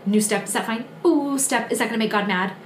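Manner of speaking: timid, tentative little questions; a touch of anxious second-guessing at each step; fearful checking. Acted. Believer nervously checking every step with God, mildly fearful. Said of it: "that's shame, and that's fear".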